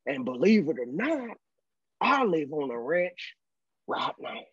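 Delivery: mock Texan rancher at an easy pitch; thick Texan accent. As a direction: imitate a Texas cowboy, dropping away at the end. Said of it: "and this thick accent".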